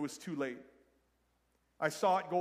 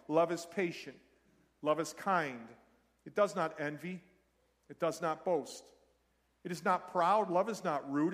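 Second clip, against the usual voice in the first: measured, reverent reading of the love passage; scripture reading. Acted. Preacher reading scripture aloud to his congregation, reverent and measured. Reads First Corinthians thirteen.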